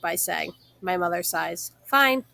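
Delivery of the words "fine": deflated. A narrator's reading. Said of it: "a little of the excitement is gone in her voice".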